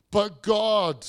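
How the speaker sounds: But God punched loud and firm; emphatic declaration. Acted. Preacher to congregation, loud emphatic But God. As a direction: land But God like a verdict. Punched slogan after slow take.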